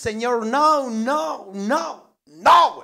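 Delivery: high, escalating string of refusals; offended protest. Acted. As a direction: protest each time, ending loud. Acted offended bartender protesting. (protesta ofendida, cada vez más enfática)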